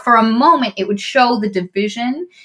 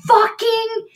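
threat; 7 semitones higher, slower than usual. Retold or imitated. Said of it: "Isandra's like".

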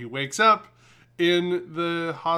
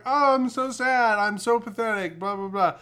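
mock self-pity; 8 semitones higher than usual. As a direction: ham up pathetic sobbing. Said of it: "where he's like".

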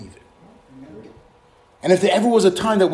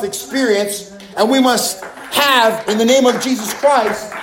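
fiery preaching. Acted. Preacher rousing the congregation to prayer, fiery sermon.

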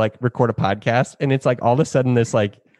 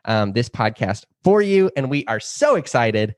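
teacher voice; 2 semitones higher than usual. Real, not acted. Host opens the trailer and introduces the co-host, teacher voice. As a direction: switch into a teachery hosting voice. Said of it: "your voice just completely changed when you started talking".

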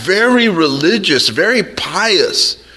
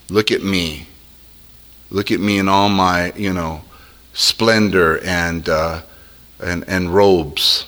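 boastful Satan; 10 semitones lower, 3 dB quieter than usual. Retold or imitated. Voicing proud Satan, low and quiet.

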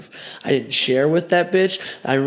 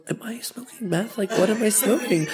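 panicked; 7 semitones higher, 4 dB quieter than usual. Retold or imitated. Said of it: "I was really freaking out".

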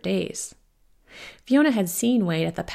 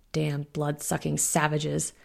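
put-on slow, gravelly older alpha; 3 semitones lower, 3 dB quieter, slower than usual. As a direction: growl it out slowly and gravelly. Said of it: "the gravelly voice of an older alpha male".

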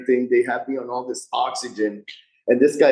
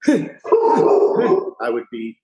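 drawn out; much slower than usual. Shown as a demonstration. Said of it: "I would be like".

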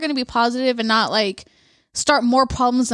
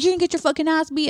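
quick, higher-pitched heckle; mock yelling; 5 semitones higher, faster than usual. Family yelling at the other fighter, mock heckle. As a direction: imitate a heckler without real volume. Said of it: "literally yelling at this other fighter".

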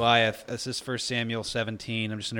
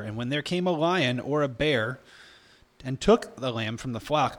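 scripture reading. A narrator's reading. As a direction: read the verses aloud deliberately. Reads scripture aloud.

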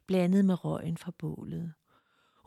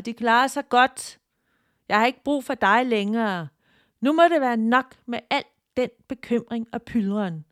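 a touch higher and louder, standing her ground; firm defiance; 3 semitones higher, 4 dB louder than usual. Acted. Tina refuses her mother-demon's guilt, firm and defiant. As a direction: set the boundary, no more worry.

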